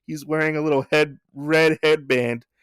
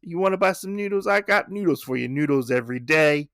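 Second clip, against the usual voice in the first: pushy street vendor, higher and fast; noodle vendor; 5 semitones higher than usual. Retold or imitated. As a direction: hawk noodles like an eager cat vendor. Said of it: "He's like".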